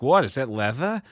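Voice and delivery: lightly mimicked New Jersey accent, dropped R; imitated Jersey accent. Husband imitating his wife on the phone, Jersey accent. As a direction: put on a Jersey "leather". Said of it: "She's Jersey, right?".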